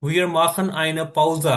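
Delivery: very slow, word by word; slow example sentence. Shown as a demonstration. Teacher giving example sentence to students, very slow. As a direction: read it slowly for the class. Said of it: "Pause मैंने होता है break".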